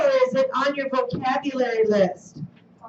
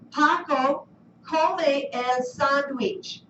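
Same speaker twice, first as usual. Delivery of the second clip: Paco come el sandwich spoken very slowly; slow model sentence; much slower than usual. Shown as a demonstration. Teacher reading model sentence slowly to class. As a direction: read Paco come el sandwich at half speed. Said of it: "here's our model".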